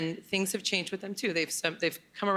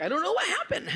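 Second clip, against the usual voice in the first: high-pitched helpless squeal; mock clueless; 14 semitones higher than usual. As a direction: play innocent, much higher and half laughing. Mock innocence about the drugs.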